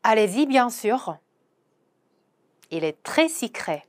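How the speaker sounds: very slow, careful French; slow pronunciation model; slow demo. Shown as a demonstration. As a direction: lay out each syllable slowly for learners. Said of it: "한 번 더".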